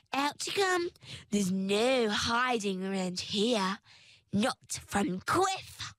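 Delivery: gloating creature voice. Acted. Wraith gloating, self-satisfied.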